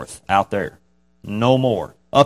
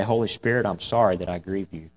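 softer, sincere prayer; 3 semitones lower, 6 dB quieter than usual. Shown as a demonstration. A believer praying to the Holy Spirit, softly and sincerely. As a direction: pray it gently and sincerely. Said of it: "you need to pray".

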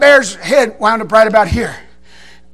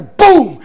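gunshot imitation; 3 semitones higher, 4 dB louder than usual. Imitating the rifle shot.

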